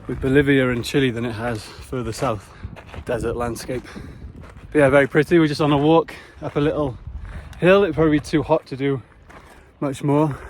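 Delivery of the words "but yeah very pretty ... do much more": breathless at high altitude; panting between words on the climb; out of breath. Real, not acted. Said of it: "I'm out of breath".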